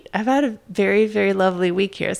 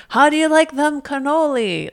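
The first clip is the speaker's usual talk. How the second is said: Matt Damon; 8 semitones higher, 4 dB louder than usual. Retold or imitated. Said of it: "Matt Damon, like, going".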